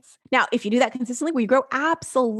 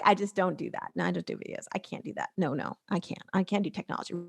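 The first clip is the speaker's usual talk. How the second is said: much softer, lower, half-whispered refusal; mock whiny excuses; 5 semitones lower, 8 dB quieter than usual. Imitating a member refusing videos, soft mock whine. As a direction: mumble the excuses like a reluctant client.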